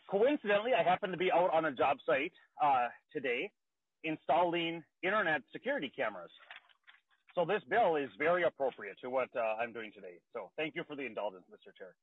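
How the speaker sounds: breathless after hurrying to the car; out of breath. Real, not acted. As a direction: talk while catching your breath. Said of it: "I'm out of breath".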